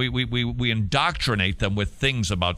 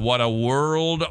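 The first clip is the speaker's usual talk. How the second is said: slowed-down sigh of a remark; exasperated lament; slower than usual. Real, not acted. Host despairing over children's friendships, slow lament. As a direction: lament it slowly. Lamenting the story just told.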